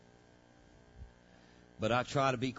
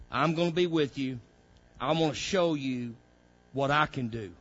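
voicing God, rising from plain to loud and higher; building preaching; 3 semitones higher, 8 dB louder than usual. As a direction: build God's promise into a ringing call. Voicing God's promise, building up.

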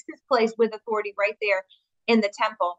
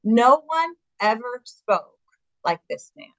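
awed quote; slower than usual. Retold or imitated. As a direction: savour each word, then let it drop away in wonder. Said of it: "this is my favorite line".

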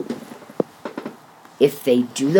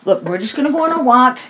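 calm voice; 5 semitones higher than usual. Retold or imitated. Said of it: "in a calm voice".

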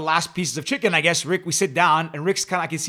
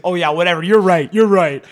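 mild mock agreement; 4 dB louder than usual. Arguing friend pretends to give in, mocking. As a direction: concede mockingly to end the argument. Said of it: "he's mocking me like he always does".

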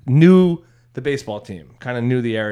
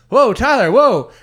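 mock crowd warning; 10 semitones higher, 4 dB louder, slower than usual. Crowd calming him.

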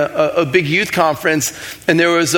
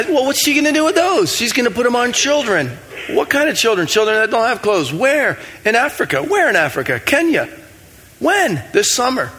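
rapid-fire questions; 6 semitones higher than usual. Retold or imitated. Retold questioning dialogue with God.

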